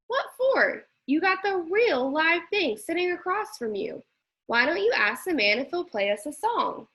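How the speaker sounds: a lively grandma brushing off the question; Nana. Acted. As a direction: grandmother cheering up her grandson. Nana's voice again.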